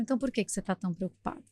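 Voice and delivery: put-on quiet, knowing question from the old man; gentle challenge. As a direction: gently question her worry. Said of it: "Aí ele falou".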